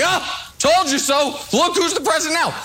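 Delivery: mocking gloat. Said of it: "ten years later be like".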